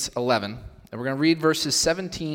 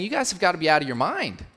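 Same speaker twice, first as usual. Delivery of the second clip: exasperated paraphrase; 4 semitones higher than usual. Acted. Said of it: "Paul's saying".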